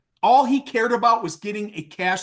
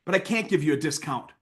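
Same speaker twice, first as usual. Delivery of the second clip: softer, brotherly no; gentle refusal; 3 semitones lower, 3 dB quieter than usual. Retold or imitated. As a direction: let him down kindly, like a friend. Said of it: "I said".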